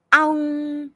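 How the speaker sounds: high ringing hum; resonant hum. A narrator's reading. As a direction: hum it like a bell. Formation hums into space.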